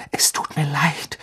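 soft, hushed whisper; whispered apology. A narrator's reading. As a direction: apologise under your breath. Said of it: "flüsterte er". (geflüsterte Entschuldigung)

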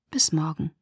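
Bis morgen whispered, unvoiced and falling. A narrator's reading. Dejected Bella bids Edward goodbye in a whisper. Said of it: "Ich nickte bedrückt".

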